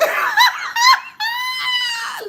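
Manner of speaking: high howling laughter; loud howling laugh at the tarot spread; loud shrieking laugh. Real, not acted. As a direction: let the laugh explode. Cracking up.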